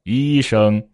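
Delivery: level tones at everyday pitch; middle key. Shown as a demonstration. Teacher showing it is the same word, in a middle key. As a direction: keep both syllables level without raising them. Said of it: "但是我说医生".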